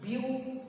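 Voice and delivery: first syllable "Beau-" said alone; broken into syllables. Shown as a demonstration. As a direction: stop after "Beau-" as one separate beat. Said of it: "one syllable".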